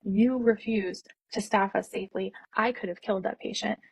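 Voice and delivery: slow, deliberate, every word laid out; slow cold fury at the manager; firm slow confrontation. Retold or imitated. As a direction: tell the manager off, steady and measured. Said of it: "I laid it out on her".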